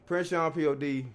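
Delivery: slow hyped station intro; radio announcer. Acted. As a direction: present the show like a DJ.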